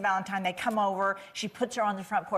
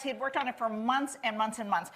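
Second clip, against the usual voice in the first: ordinary talk, nothing marked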